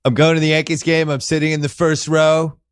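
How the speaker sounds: puffed-up boastful Trump voice; hammed-up Trump boasting about his team; Trump impression. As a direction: brag like Trump at a ballgame.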